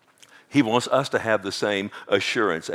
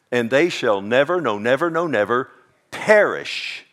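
louder, the never repeated and hammered; emphatic proclamation; 5 dB louder than usual. Acted. Preacher proclaiming Jesus' promise to the church, louder. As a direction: build the promise up to perish.

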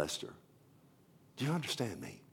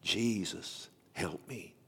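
quiet prayer; 6 dB quieter, slower than usual. Retold or imitated. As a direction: breathe the prayer softly, almost to yourself. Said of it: "Corrie prayed quietly".

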